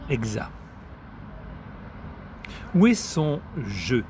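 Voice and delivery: measured poem recital with deliberate pauses; poetry reading. Acted. Reading Maria Stepanova's poems to friends, measured poetry recital. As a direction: recite it line by line, letting each phrase stand.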